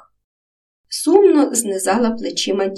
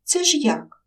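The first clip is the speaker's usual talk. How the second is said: surprised; 8 semitones higher than usual. Acted. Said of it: "здивувалася".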